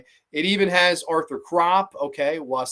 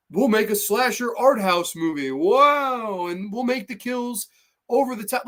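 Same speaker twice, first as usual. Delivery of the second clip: mock enthusiasm; 5 semitones higher than usual. Streamer mocking pretentious slasher makers, mock enthusiasm. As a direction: sarcastically pitch it as if it were amazing.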